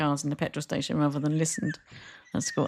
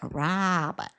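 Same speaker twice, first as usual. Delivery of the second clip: long Canadian vowel in Robert; kids' new Canadian accent; 4 dB quieter than usual. Retold or imitated. Mum showing how the kids changed, imitated Canadian accent. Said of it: "I heard their accents change".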